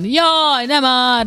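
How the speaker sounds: high-pitched imitated whine of protest; mild mock hollering. Parent showing how the son yells while gaming, mild mock hollering. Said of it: "így, így ordibál".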